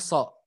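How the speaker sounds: "so" with a thin s like sin; pangkal lidah turun. Shown as a demonstration. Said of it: "tidak naik pangkal lidahnya". ("so" tipis, pangkal lidah tidak naik)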